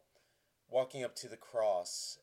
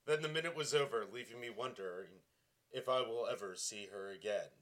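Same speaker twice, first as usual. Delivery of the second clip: wistful fade after the climax; hushed, sappy verse ending; dramatic poetry reading; 3 dB quieter than usual. Shown as a demonstration. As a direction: let the poem sink softly to its end. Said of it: "my first dramatic reading of a terrible poem".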